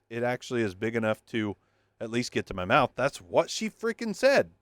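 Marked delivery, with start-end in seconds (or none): 3.0-4.5 excited joke. Real, not acted. Repeats joke, much higher.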